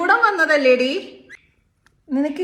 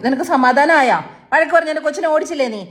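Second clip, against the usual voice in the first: mock scolding; 3 dB louder than usual. Mock scolding pet after Appu leaves.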